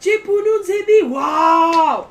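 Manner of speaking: colleague's loud scandalized outburst; shocked shout. Retold or imitated. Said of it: "Il a crié au scandale".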